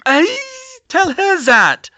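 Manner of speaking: high, loud, drawn-out snap; snapped. Acted. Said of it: "Fleur snapped".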